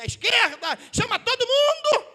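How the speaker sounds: loud, rising summons; preaching shout. Real, not acted. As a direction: build to a full-voiced call for everyone. Preacher enacts rousing of the crowd.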